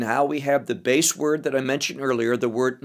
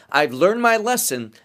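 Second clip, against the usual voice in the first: slightly raised, rueful stress on my; a mock sigh of someone who paid for it; rueful admission; 3 semitones higher than usual. Teacher voicing a sufferer's regret, rueful. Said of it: "we've all heard the expression".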